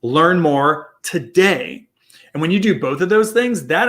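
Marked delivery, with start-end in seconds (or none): 0.0-1.9 call to action read. Shown as a demonstration. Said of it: "easiest thing you can do is say".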